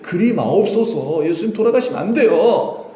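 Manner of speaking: urgent imploring protest; pleading. Acted. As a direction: beg him not to go, voice lifted. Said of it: "부탁, 부탁하는".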